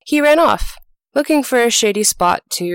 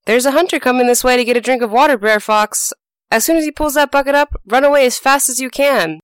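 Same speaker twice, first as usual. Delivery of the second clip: higher, fast urgent call; shouted warning; 6 semitones higher than usual. Acted. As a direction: hurry him out before the hunter comes. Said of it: "shouted down a warning".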